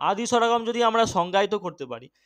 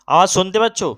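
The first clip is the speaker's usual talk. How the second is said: louder, checking the line is open; calling out; 5 dB louder, faster than usual. Real, not acted. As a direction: call out to the silent class online. Teacher checks if students hear. (জোরে ডেকে জিজ্ঞেস করা)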